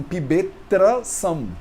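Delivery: pibetrasam drawn out slowly with a hard T; T kept before R. Shown as a demonstration. Teacher shows students the unchanged join, slow pibetrasam with T. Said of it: "Mas não é isso que acontece".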